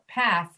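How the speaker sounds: "Path" with aspirated p and th ending; corrected model. Shown as a demonstration. Teacher correcting Galena's vowel. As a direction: say "Path" firmly, breathy p. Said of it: "No, no, no".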